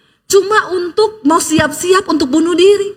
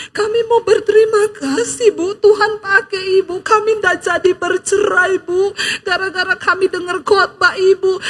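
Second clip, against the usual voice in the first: tearful thanks; 3 semitones higher than usual. Retold or imitated. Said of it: "nangis di kaki saya".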